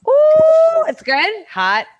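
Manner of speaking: loud, high ooh from hot food; burned mouth. Real, not acted. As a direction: react to a too-hot bite. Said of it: "You burned your mouth".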